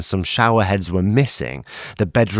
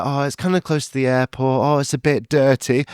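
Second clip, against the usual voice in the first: mock whiny reviewer; 4 semitones higher than usual. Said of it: "they're like".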